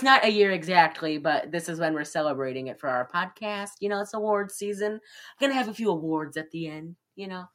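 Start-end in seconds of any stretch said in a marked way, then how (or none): 3.8-7.4 fast, hurried delivery; rushing. Real, not acted. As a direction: rattle it off quickly. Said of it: "I'm sorry if I'm kinda rushing".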